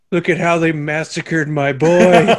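slow, loud mournful mob boss; Godfather impression. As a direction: grieve like the Godfather. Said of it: "he just looks at the Aes Sedai and is like".

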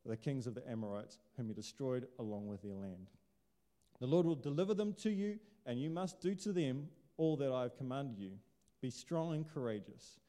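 steady, measured Bible reading voice; scripture reading. Acted. Pastor reading Deuteronomy to the congregation, measured and deliberate. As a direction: read the passage out with weight.

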